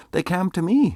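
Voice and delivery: high, loud scornful lady; loud retort. Acted. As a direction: fling the answer back sharply. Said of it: "said that fair lady".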